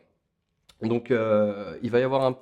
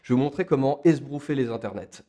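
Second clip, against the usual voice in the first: put-on English accent; 3 dB louder than usual. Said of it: "avec un accent anglais de qualité".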